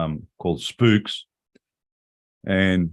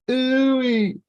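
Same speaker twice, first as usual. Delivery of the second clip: ooh-wee. Real, not acted. Reacting to girls' viral views.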